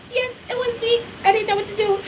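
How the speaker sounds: high, small guilty voice; sheepish confession. Retold or imitated. Admitting to the prophet at the door, high and sheepish. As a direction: own up meekly like a caught child.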